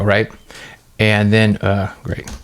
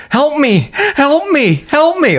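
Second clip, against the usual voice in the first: very high-pitched pleading cry, not screamed; retold call for help; much slower than usual. Patient in the lobby calling for help, high retold plea. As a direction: call out repeatedly in a high, contained voice. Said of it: "I'm calling out for help".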